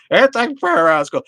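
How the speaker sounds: high, loud mock yell; hammed-up indignant shout; mocking complainer. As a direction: holler it slowly, mocking an outraged complainer. Mocking those who complain about prayer.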